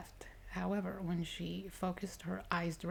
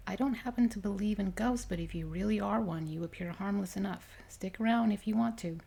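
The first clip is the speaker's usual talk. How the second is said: lightly voiced wary woman; 3 semitones higher, 5 dB louder than usual. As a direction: speak to the ghost, casual but a bit loud. Character speaks to the ghost.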